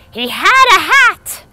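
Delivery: high, loud, slow complaint; indignant grandmother. Retold or imitated. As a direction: whine it like an offended bubbe. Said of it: "And the grandmother said".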